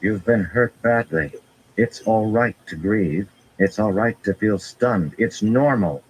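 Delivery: a hint of Nynaeve soothing a hurt friend; comforting healer. A narrator's reading. Nynaeve telling wounded Rand it is fine to grieve, mildly coaxing.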